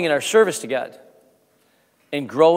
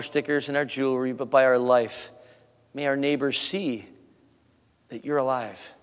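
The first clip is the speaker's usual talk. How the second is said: prayer. Acted. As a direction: pray gently over the congregation. Pastor leads closing prayer.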